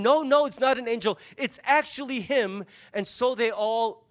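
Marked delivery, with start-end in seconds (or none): 0.0-2.6 insisting. Acted. Servant girl insisting to the doubting household, a touch of insistence. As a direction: press the point, won't back down. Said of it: "she keeps insisting".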